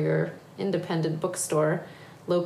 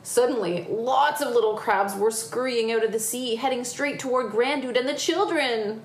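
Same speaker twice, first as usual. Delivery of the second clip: lively picture-book reading; story narration; 4 semitones higher than usual. A narrator's reading. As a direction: tell it to children with building excitement. Reads picture book aloud.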